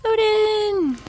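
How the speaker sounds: fond cry. Real, not acted. Crying out fondly to dog.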